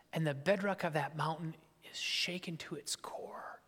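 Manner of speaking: hushed, awed whisper. Real, not acted. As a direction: breathe it in awe. Hushed awe at God's presence.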